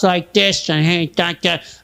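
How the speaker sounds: mocking politician impression; put-on speechifying voice; Chuck Schumer. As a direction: imitate a politician's mannered speech. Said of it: "Watch every time Chuck Schumer speaks".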